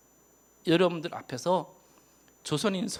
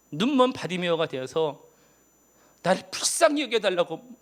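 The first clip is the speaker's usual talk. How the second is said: crying out. Retold or imitated. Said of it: "외치는데".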